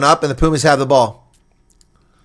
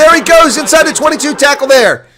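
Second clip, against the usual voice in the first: higher, louder rush of play-by-play; excited call; 13 semitones higher, 8 dB louder than usual. Real, not acted. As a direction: chase the runner with your voice. Winger breaks down the touchline.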